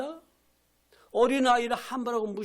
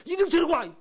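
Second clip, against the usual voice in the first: furious rebuke; 3 semitones higher than usual. Acted. Jesus rebuking the disciples who turned children away, furious. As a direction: rebuke them in outrage. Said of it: "막 화내고 분개하셔서".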